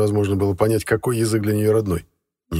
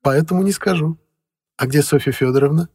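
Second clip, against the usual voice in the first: housekeeper voice; 7 semitones higher, 6 dB louder than usual. A narrator's reading.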